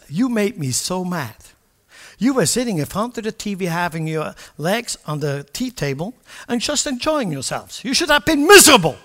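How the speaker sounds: mock wife's angry scolding rising to a loud high burst. Wife scolding husband for lounging, hammed-up angry. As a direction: play the wife chewing him out, ending in a yell.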